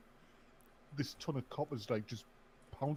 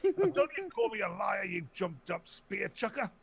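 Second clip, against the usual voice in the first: put-on old man voice; 8 semitones higher than usual. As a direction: play a grumpy old man fuming at a scammer. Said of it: "put the voice on".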